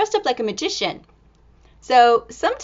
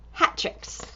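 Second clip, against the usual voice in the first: whisper; 7 dB quieter than usual. Acted. Reading title aloud.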